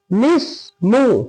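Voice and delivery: "लिस्मु" slowly in two beats, "lis... mu"; joined pronunciation. Shown as a demonstration. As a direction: stretch out "लिस्मु", laam joined to seen. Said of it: "क्या हो जाएगा".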